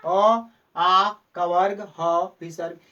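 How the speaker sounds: गले से साफ़ उच्चारण करके दिखाना; throat sounds demo. Shown as a demonstration. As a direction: sound out अ, आ, कवर्ग from the throat for students. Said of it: "आप बोल के ट्राई कर सकते हैं".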